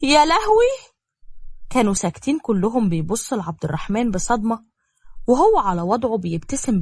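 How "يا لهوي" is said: high, loud cry of shock. A narrator's reading. Woman hearing a sudden marriage proposal, shocked. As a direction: shriek it in dismay, pitch leaping up. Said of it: "شهقت نبيلة وضربت على رجليها بصدمة".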